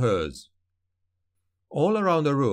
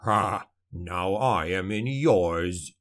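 low, slow gloating taunt; gloating dwarf; 4 semitones lower, slower than usual. A narrator's reading. Dwarf taunting the dead sorcerer, low and gloating. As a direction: relish the payback with a dark chuckle. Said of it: "Gotrek laughed evilly".

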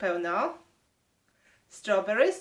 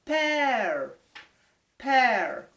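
model word loudly; 2 semitones higher, 4 dB louder than usual. Shown as a demonstration. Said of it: "Can you say loud?".

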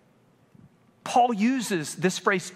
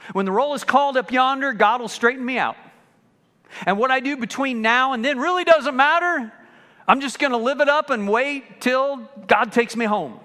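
mock careless Christian; 7 semitones higher, 6 dB louder than usual. Mocking an imagined careless Christian.

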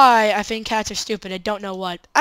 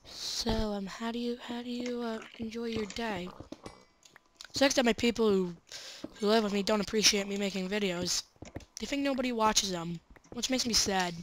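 leaning in to whisper; 11 dB quieter than usual. Pretend. Answers the whisper in kind.

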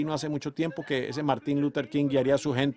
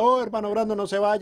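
retold pleading cry; 8 semitones higher, 4 dB louder than usual. Dreamer crying out to the departing preacher, retold shout. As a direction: call after someone who is leaving, pitched up. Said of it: "Yo estaba gritando".

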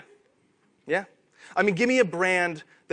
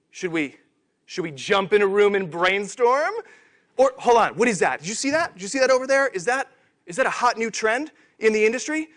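grab at every shiny thing; frantic trend-chasing. Pretend. Marketing team spotting a new trend, mock frantic excitement.

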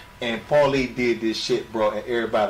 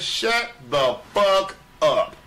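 retold dismissal; 8 semitones higher, much slower than usual. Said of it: "And I said".

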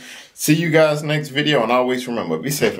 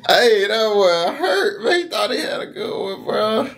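laughing; 6 semitones higher than usual. Real, not acted. Still cracking up at the rejection.

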